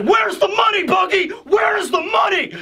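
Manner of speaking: a thug roughing up the clown for cash; shouting thug. Retold or imitated. Thugs torturing Buggy.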